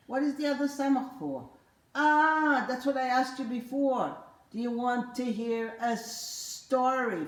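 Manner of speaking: an excited character exclaiming; puppet voice. Acted. Puppet reminding the child, high and fast. Puppet mock-exasperated answer.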